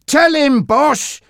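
high-pitched gleeful egging-on; laughing. A narrator's reading. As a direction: goad the boss, breaking into a cackle. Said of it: "said Monty, laughing".

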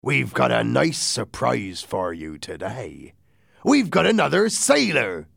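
lightly voiced pirate, rising to a high finish; cheerful pirate. Silver announcing a surprise to the doctor, cheerful. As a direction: stretch out the tease, then lift the reveal.

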